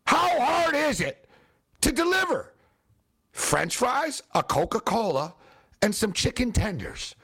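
slow, high-pitched indignation; exasperated disbelief. Real, not acted. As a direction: stretch it out, fed up and incredulous. Indignant at a failed delivery.

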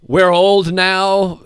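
put-on slow, high, weary old rocker. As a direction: drag it out like a tired rocker. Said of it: "a singer".

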